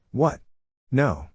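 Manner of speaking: a hint of a kid sister's fake surprise; mock innocent "What? No."; bratty sister denial.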